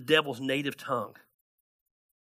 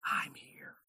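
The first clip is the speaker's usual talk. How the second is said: soft whisper of reassurance; whispered God's voice; 11 dB quieter than usual. Acted. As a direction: breathe it gently, like a secret. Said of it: "small voice where he reminds you".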